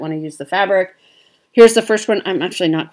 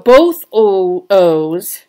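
slipping into a Midwest accent on the vowel; broad Midwest O, said without thinking; 7 dB louder, much slower than usual. Real, not acted. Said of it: "my Midwest accent came out there".

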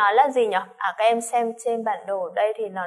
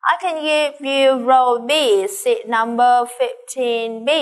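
reading the woman's part; 6 dB louder, slower than usual. Acted. Teacher acts the woman's line.

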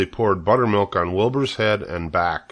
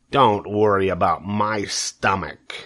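snarl; slower than usual. Acted. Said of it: "snarled Templeton".

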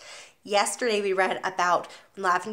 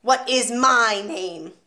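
1 slow menacing demand; 4 dB louder, much slower than usual. Acted. Trunchbull demands respect.

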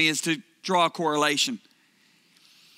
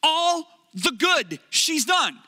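pleading; 7 semitones higher, much slower than usual. Retold or imitated. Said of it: "And I said".

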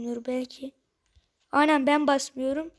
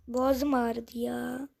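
slower and softer, worn out from talking; sore throat; 3 semitones lower, 4 dB quieter, much slower than usual. Real, not acted. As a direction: let the words drag, throat aching. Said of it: "Sesim değişikliğe uğradı".

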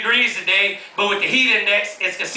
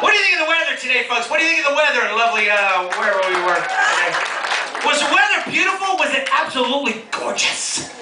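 mock weatherman; 2 semitones higher than usual.

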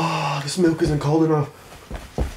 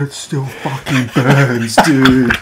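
strained groan; 2 semitones lower, 6 dB louder, slower than usual. Real, not acted. Still burning mouth.

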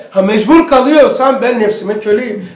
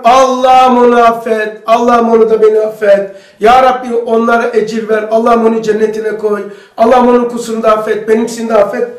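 prayer. Shown as a demonstration. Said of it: "nefretin geldiği zaman şöyle de".

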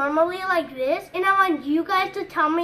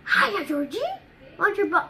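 Pennywise with red nose. Shown as a demonstration. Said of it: "with a big fat red nose".

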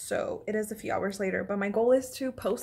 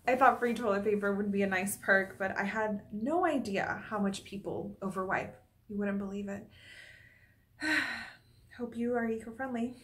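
lightly played landlord, dropping quieter; deadpan aside, softer as it goes; monologue take; 4 dB quieter than usual. Landlord telling tenants about toilet paper, softer deadpan. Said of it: "performing a monologue".

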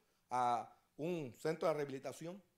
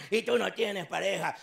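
flirty woman; 3 semitones higher, 7 dB louder than usual. Acted. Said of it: "le dijo".

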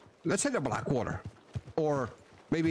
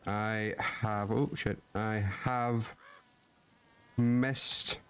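tender; 3 semitones lower, much slower than usual. Real, not acted. Writing letter to son.

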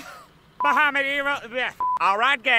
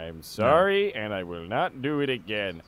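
ordinary talk, nothing marked

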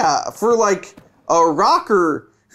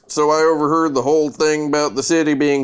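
depressed vampire voice; 4 semitones lower than usual. Acted. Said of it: "Is that your Snape?".

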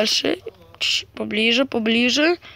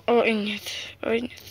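whispering; 2 semitones lower, 5 dB quieter than usual. Real, not acted. Whispered dismay.

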